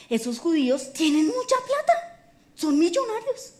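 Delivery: rising high on the key words; lightly acted eager pitch to a king; excited persuasion. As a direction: talk up a fortune, pitch climbing.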